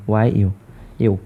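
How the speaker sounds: ওয়াই ইউ said as a clear y-sound, yoo; sound of European's start. Shown as a demonstration. Teacher shows students the yoo sound of European. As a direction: spell out the y-glide ওয়াই ইউ then ইউ. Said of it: "কিন্তু উচ্চারণটা হচ্ছে এরকম".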